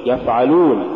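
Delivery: يفعلون with a brief f; moderately flowing f in يفعلون; balanced fa. Shown as a demonstration. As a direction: say يفعلون without dragging the f. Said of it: "قل".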